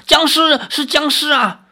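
high-pitched cry of alarm; frightened screaming. Acted. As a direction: cry out as if you had seen a zombie. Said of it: "吓得哇哇大叫".

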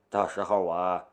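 cut off mid word. Acted. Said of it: "唐天龙打断了夏雷的话".

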